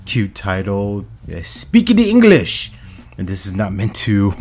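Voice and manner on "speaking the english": silly put-on voice. Cute title said in funny voice.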